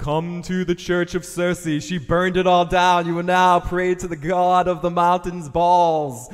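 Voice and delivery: loud, effected preaching over music; religious preacher voice. Pretend. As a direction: preach it like a grand cult leader. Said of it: "It's making me religious".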